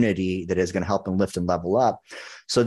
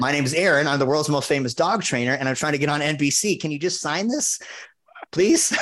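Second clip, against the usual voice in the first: pleading sales pitch; 6 semitones higher than usual. Retold or imitated. Begging a shopper to sign, high and rising. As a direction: beg sweetly, climbing higher to the last word. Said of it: "I was like".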